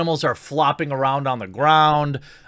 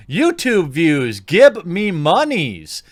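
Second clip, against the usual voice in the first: mock greedy voice; 3 semitones higher, 5 dB louder, slower than usual. Mocking her greed.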